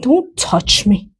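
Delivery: slow grumpy pony voice; voicing the pony. Farmer voices her pony refusing to be touched, slow and grumpy. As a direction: speak for the annoyed pony, drawn out. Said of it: "It's like".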